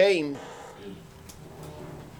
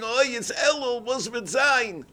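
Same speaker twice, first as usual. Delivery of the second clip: mock wail; 7 semitones higher than usual. Visitor quoting the tzaddik's night cry back, mild mock wail. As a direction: lightly imitate his night cry.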